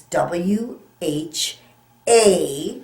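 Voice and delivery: W H A spelled out slowly, letter by letter; slow spelling. Shown as a demonstration. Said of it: "spelling slowly for class".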